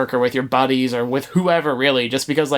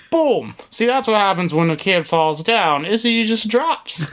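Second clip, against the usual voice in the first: John Madden impression; 6 semitones higher than usual. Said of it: "John Madden would say".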